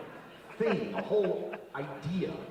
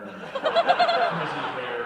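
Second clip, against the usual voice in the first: sneering drawl; 4 semitones lower, 8 dB louder, much slower than usual. Acted. Mocking Lisa's looks.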